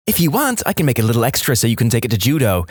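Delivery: lightly voiced gushing mum; mum on the phone. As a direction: chatter on fondly as an oblivious mother.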